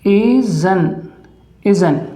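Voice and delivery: isn't said as "iz-un"; isn't with the t dropped; saying isn't. Shown as a demonstration. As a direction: clip isn't to "iz-un". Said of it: "बोलेंगे".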